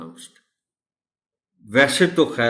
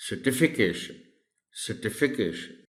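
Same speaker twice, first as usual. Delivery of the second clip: certification with stress on "ti"; 5 dB quieter, slower than usual. Shown as a demonstration. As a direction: model certification as "ser-TI-fi-cation". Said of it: "the stress is on the T". (certification میں ti پر زور)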